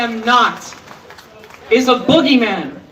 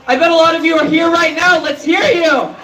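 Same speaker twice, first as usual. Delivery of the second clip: rousing crowd call; 4 semitones higher, faster than usual. Real, not acted. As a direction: fire up the crowd.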